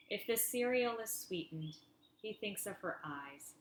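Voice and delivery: measured recital, each line starting up and falling away; deliberate poetry-reading cadence; poem reading. Acted. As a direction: read it as verse, line by line.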